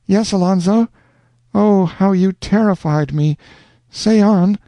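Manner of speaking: high, rapturous heroine; cling to him with joy; Rosanna, rapturous. A narrator's reading. Rosanna begging Alonzo to stay, rapturous.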